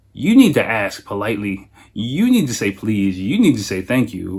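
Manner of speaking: mild parental insistence, each demand set out evenly; lightly stern parent laying down rules; strict parent. Retold or imitated. Father teaching his son manners in English, lightly stern. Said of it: "I'm kinda like that".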